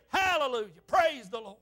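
imitating an exuberant amen-corner preacher; retold exclaimed praise. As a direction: call out the praise, lightly emphatic.

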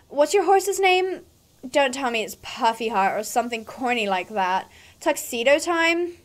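haughty, condescending rider; mean girl. Acted. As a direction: talk down to a beginner. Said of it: "my mean girl voice".

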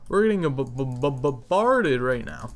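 tripping over the first sound; stuttering. Real, not acted. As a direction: stammer on the b, slowed. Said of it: "I keep stuttering".

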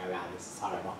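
low, very soft retold groan of dread; dismayed aside. Speaker's private reaction to woman's praise, hushed dismay. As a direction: drop to a small, low inner voice.

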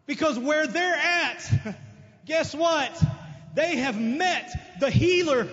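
shouting the good news; rising preacher shout. Real, not acted.

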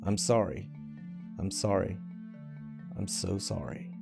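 soft whisper fading away to almost nothing; fading whispered apology. Acted. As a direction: let the sorrys die out in the dirt. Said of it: "she whispered".

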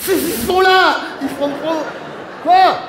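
loud, high excited voices; excited shouting. Acted. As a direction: shout as the gang charges. Villains rush to grab Cerise. (cris excités des brigands)

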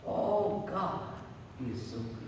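softly retold, overcome praise, sinking low; retold tearful praise. Worshiper on a park bench praising God, softly moved. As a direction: murmur it low, moved by gratitude. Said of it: "tears started coming down".

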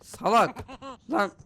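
exasperated insult. Pretend. Fed-up babysitter insulting the runaway baby, loud and exasperated. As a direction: fling the insult out loudly.

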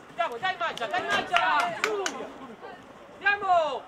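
loud sideline calls urging the player to eat up the ball; shouting encouragement. Real, not acted. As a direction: push them on, voice up and loud.

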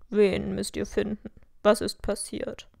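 put-on mildly astonished young man; understated astonishment in a boy's voice. A narrator's reading. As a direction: ask with a touch of surprise. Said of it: "fragte er erstaunt".

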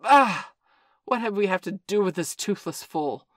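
a tiger roaring contempt over the pack; Shere Khan roaring. Acted. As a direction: bellow it out and mock the old wolf. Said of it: "Then Shere Khan roared".

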